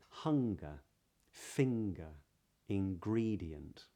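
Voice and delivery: "hunger", "finger", "ingredient" with ng followed by a hard g; "finger" said as fing-ger with the g spoken; modern british accent. Shown as a demonstration. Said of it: "For example".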